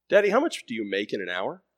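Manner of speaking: a son's first gentle ask; child son asking. Acted. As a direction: ask it plainly, a touch curious. Son presses his dad.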